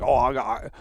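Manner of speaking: a hint of a whiny donor's demands; mocking needy donor. Streamer mocking a donor who pays for favours, light mock whine.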